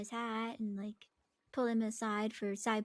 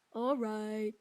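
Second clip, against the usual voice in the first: put-on Swedish accent; 4 dB louder, much slower than usual. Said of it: "He does it in a Swedish accent".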